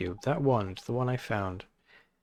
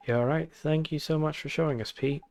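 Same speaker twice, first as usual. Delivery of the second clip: Welsh character voice; 4 semitones higher than usual. Acted. Drippy calling to Oliver, hearty Welsh voice. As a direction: call out in a Welsh lilt like an old friend.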